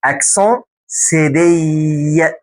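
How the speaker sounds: اكسون سيدي said very slowly, syllable by syllable; slow clear demo. Shown as a demonstration. Teacher slowly modelling اكسون سيدي for the student. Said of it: "مش سيدل".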